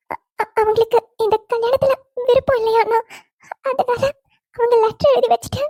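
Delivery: halting, stuttered delivery of bad news; hesitant, stammering. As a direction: stammer and pause, reluctant to tell him. Afraid to break bad news.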